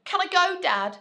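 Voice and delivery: put-on high, fast, pleading child's voice; begging child. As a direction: beg Dad urgently like an impatient girl. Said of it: "she begged".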